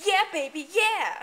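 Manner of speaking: high, loud victory cheer; excited cheer. Acted. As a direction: whoop it up in triumph. Hero celebrates victory.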